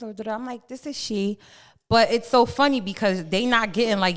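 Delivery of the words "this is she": posh voice. Retold or imitated. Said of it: "Put the posh voice on".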